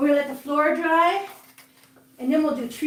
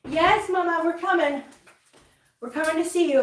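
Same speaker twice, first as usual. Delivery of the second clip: pet talk voice; 4 semitones higher than usual. Real, not acted. Calling to cat.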